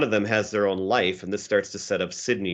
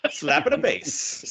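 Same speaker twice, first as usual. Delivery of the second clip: drawn-out, higher, badly faked Jamaican accent; mock Jamaican accent; 6 semitones higher, slower than usual. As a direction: try a Jamaican accent that drifts toward leprechaun. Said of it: "try to do a Jamaican accent".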